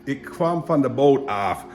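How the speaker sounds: Fries accent demo. Shown as a demonstration. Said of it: "with a little bit of Fries accent".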